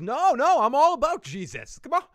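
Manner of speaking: high, loud pleading insistence; pleading protest. Retold or imitated. Heahmund begging Alfred, high loud protest. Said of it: "he goes".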